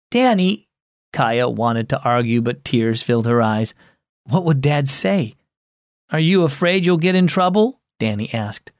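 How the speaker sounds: put-on gentle storyteller reading to children; story narration. A narrator's reading. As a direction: read the story warmly to kids. Narrates story with character voices.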